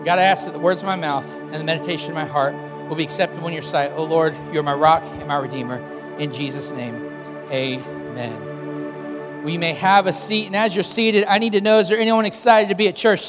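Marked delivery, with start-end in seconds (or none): 0.0-9.4 prayer. Acted. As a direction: pray it gently, fading out. Pastor praying aloud.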